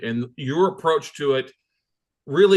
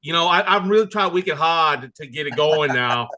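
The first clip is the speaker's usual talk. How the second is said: playful attempt at a Boston accent; 3 dB louder than usual. Host showing his guest he's trying, playful Boston accent. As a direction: lay on a little Boston accent. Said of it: "better on the Boston accent".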